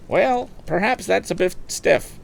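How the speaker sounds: high, slow coaxing auction call; auctioneer coaxing. Acted. Auctioneer coaxing a silent crowd, high and slow. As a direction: ease the price down gently. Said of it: "went on Mister Wood".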